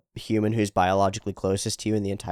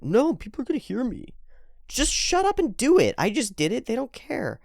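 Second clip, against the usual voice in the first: roommate voice; 12 semitones higher than usual. Retold or imitated. Roommate's words voiced high.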